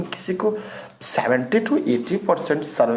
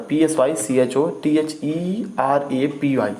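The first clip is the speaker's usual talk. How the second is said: slow spelling; 2 semitones higher, slower than usual. Shown as a demonstration. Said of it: "इसमें पी silent रहता है".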